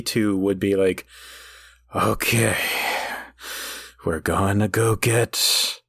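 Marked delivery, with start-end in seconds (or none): 2.0-5.8 slow, low, deflated pep talk; weary tired leader. Retold or imitated. A hint of tired Optimus rallying his troops. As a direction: sigh it out like an exhausted Optimus. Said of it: "dank and dreary".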